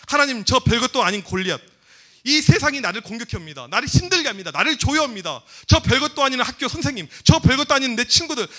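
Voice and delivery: earnest acted prayer, building gradually. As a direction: pray it out insistently, step by step. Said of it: "기도의 소리를 높이는 것이".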